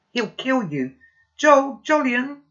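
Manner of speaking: high, loud frantic call for help; girl yelling for her boyfriend in panic; shouting manically. Acted. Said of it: "She's shouting really manically".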